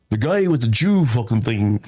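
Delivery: rough attempt at an Irish accent. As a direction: imitate an old Irish regular. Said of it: "That was my Irish accent".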